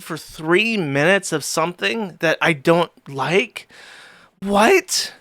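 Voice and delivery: lightly hammed-up outrage at a trifle; mock complainer. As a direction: imitate an entitled viewer griping. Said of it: "people that get like".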